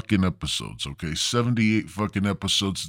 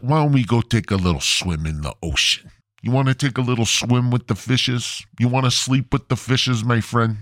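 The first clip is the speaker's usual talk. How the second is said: lightly voiced mobster tough guy; a hint of a wise-guy threat; Joe Pesci gangster; 2 semitones higher than usual. Host threatening listeners who won't follow him, light mock mobster voice. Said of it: "I'm gonna go fucking Joe Pesci".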